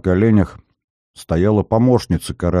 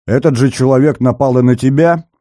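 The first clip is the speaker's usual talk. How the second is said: shouted question; 5 semitones higher, 4 dB louder than usual. A narrator's reading. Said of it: "крикнул Зверев".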